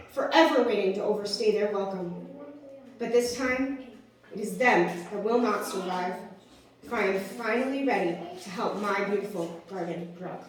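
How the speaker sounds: measured, settling slam delivery; firm poetic ending; resolute spoken-word poem. Acted. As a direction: bring the poem to a deliberate close. Recites own slam poem.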